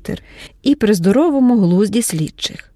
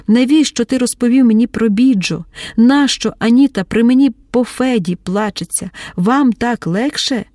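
exasperated outburst; 3 semitones higher than usual. Acted. Mar'yana's outburst continues.

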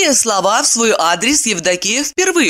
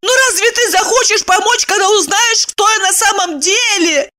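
high eager exclamation; exclaiming. A narrator's reading. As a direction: burst out earnestly. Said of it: "и воскликнула".

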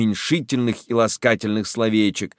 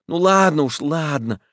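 hurried and scared; 6 semitones higher than usual. Acted. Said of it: "испуганно торопится Федченко".

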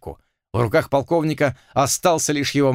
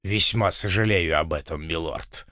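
softer, lower mock regret; sadly; 7 semitones lower, 3 dB quieter than usual. A narrator's reading. Blood feigns regret to the lord, soft low sadness. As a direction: hang the head and let it drop. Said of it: "печально опустив голову".

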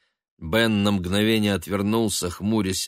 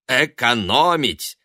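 sneering; 7 semitones higher, 5 dB louder than usual. Acted. Son mocking mother's thrift.

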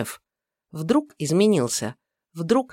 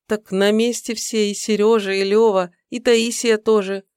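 put-on young woman voice; 5 semitones higher, 4 dB louder than usual. Secretary voiced by narrator.

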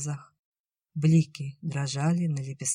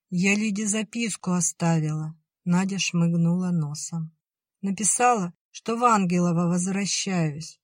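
little sister explains herself, sniffling; young girl sniffling; 3 semitones higher than usual. Acted. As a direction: answer like a small girl on the verge of tears. Nadya's child voice.

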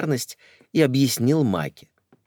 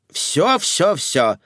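high, louder hasty protest; flustered hushing; 9 semitones higher, 5 dB louder, much slower than usual. Acted. Николетта waving her hands, high flustered protest. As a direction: wave it off in a flurry. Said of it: "замахала руками Николетта".

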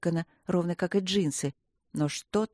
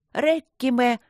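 громко и выше, из последних сил; выкрикнуть заклинание с трудом; выкрикнутое заклинание; 5 semitones higher, 4 dB louder, slower than usual. Acted. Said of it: "прокричала Мендель с большим трудом". (Мендель выкрикивает заклинание, с напряжением)

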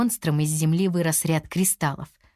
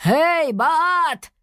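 high, loud challenge to the monster; shout; 10 semitones higher, 4 dB louder than usual. A narrator's reading. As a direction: lure the monster away. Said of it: "крикнул он".

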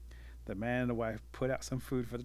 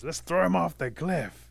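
louder, higher, drawn-out proposal; rallying call; 6 semitones higher, 9 dB louder, slower than usual. Acted. Wolf urging the council against turtle, calling out. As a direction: call it out to the whole pack.

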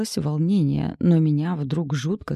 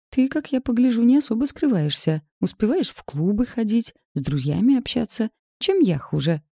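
higher, needling reproach; reproachful; 7 semitones higher than usual. A narrator's reading. Galya needles Nazar about his clubbing, pitched higher. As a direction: throw it back at him. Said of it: "упрекнула".

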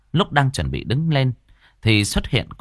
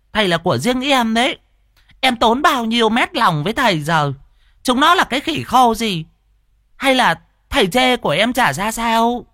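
coy jealous woman; 12 semitones higher than usual. Acted. Hòa scolding Tam coyly over the other women. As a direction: pout and scold him possessively.

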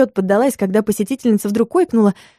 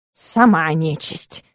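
slow, softer sulky retort; offended; 4 semitones lower, 3 dB quieter, much slower than usual. A narrator's reading. The cat answers the client, offended and sulky. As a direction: sulk it back, slowly. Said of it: "обиженно морду насупил".

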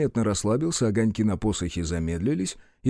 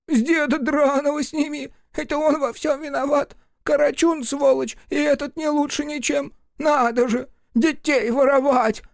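ranting imp. A narrator's reading. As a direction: spit it out like a furious imp. Imp rants angrily.

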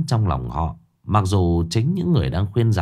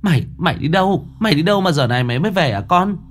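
high-pitched, rushed scold while hugging; tearful scolding; 8 semitones higher, faster than usual. Acted. Mother hugging her child scolds him, high and rushed. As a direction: scold fast in a much higher voice, half relief. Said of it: "vừa ôm lấy con vừa mắng".

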